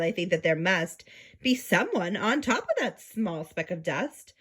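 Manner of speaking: lightly voiced thoughtful elephant; Horton musing. Horton reasons about the tiny creature, lightly voiced musing. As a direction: wonder aloud, then resolve. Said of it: "murmured Horton".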